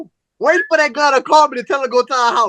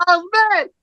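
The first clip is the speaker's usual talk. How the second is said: emphatic; 6 semitones higher than usual. Real, not acted. Repeats emphatically.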